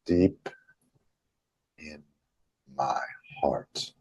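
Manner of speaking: word by word with long pauses; emphasized, deliberate. Shown as a demonstration. Emphasizing the affirmation for followers, slow and deliberate. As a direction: let each word settle, dropping softly on the last. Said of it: "Let's, let's just emphasize that".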